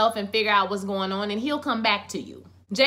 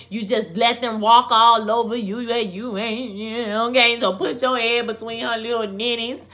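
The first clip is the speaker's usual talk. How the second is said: mock rant; 6 dB louder than usual. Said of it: "she was saying".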